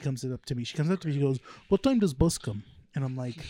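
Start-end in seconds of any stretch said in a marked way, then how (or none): 1.7-2.6 imitating a woman's Russian-like accent. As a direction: ask it in a light Russian accent. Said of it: "it sounds like a Russian accent".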